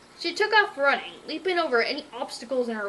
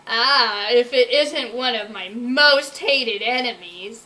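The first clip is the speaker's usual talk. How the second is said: grinning evilly; 7 dB louder, slower than usual. Acted. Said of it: "grinning evilly".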